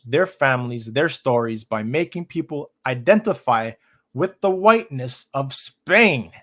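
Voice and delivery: careful, emphatic article read; reading aloud. Real, not acted. Streamer quotes Price on identity to listeners, reading aloud. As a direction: read it out phrase by phrase.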